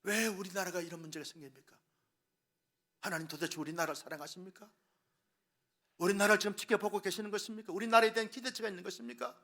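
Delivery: plead, then burst out in protest; complaining to God. Retold or imitated. Pastor voicing citizens blaming God, pleading turning to outburst. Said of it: "하나님께 원망하고 불평합니다".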